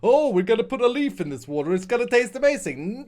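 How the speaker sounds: mock a tea lover's excitement; hammed-up fake wonder; mocking enthusiasm. Mocks tea drinkers' enthusiasm.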